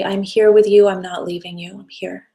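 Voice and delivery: tender reassurance fading to a near hush; reassuring self-talk. Shown as a demonstration. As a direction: comfort the frightened part of yourself, letting the voice sink away. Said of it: "Just say".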